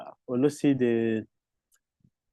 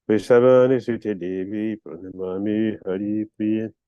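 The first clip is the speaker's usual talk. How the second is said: prayer recitation; 2 semitones lower than usual. Acted. Recites opening Sanskrit prayers.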